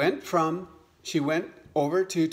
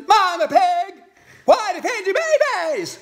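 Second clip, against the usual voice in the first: eager little frog; 9 dB louder than usual. Acted. New frog mother asking mama hen for advice, squeaky high frog voice. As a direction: pipe it up high like a tiny frog. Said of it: "And says".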